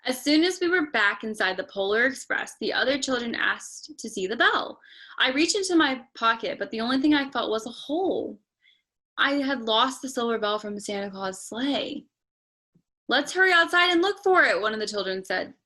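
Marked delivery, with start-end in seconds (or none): 0.0-12.1 steady storybook reading voice; story narration. A narrator's reading. Parent reading Polar Express to child, storytelling. 13.1-14.6 higher, eager rush; excited child. Acted. Child who lost nothing urging a search, excited.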